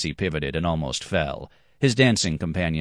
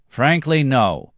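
much higher, louder sarcastic jab; dry retort; 8 semitones higher, 5 dB louder, slower than usual. Acted. Black-haired man dismisses the bravery, high and sarcastic. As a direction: cut him off with scorn.

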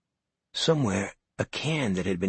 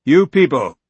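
louder and higher bellow to the crowd; 6 semitones higher, 12 dB louder than usual. Acted. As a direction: bark it out to the whole store. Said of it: "Norton bellowed".

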